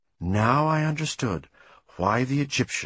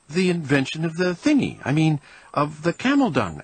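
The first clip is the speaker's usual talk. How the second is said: nervous squeak; 6 semitones higher than usual. Acted. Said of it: "I squeaked".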